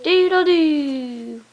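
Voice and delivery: slow rooster call; rooster crow. Retold or imitated. Parent imitates rooster for toddler.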